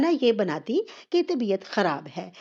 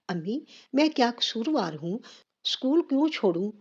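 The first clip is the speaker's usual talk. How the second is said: tearful voice; 5 semitones higher than usual. Acted. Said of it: "روحانسی آواز میں کہا".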